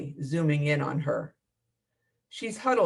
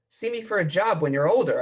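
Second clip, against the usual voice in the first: shouting; 3 semitones higher, 3 dB louder than usual. Acted. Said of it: "I shout over the howling gale".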